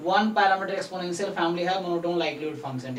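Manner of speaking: slow, word by word, for notes; dictating pace; slow dictation. Shown as a demonstration. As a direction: spell it out slowly so they can write. Tutor dictating theorem statement.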